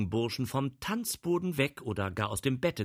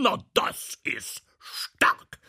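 whispered; 7 semitones higher, much slower than usual. Acted. Outraged aside.

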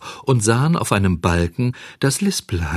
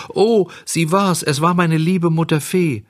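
tearful outcry; 8 semitones higher than usual. A narrator's reading. Bengele realises it was his fairy mother, tearful. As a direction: cry out in understated grief. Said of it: "Bengele weinte laut".

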